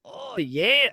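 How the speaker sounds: high breathy mock moans, hammed up; exaggerated pleasure moans; mock moaning. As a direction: ham up a moaning lover. Acted sex scene moaning.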